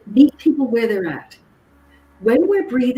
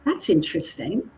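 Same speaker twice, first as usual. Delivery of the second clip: a touch quieter, calm and unruffled; calm reply; 6 dB quieter than usual. Retold or imitated. Speaker to a rude shopper, calmly unbothered. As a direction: keep it cool and even, no bite. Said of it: "I calmly said".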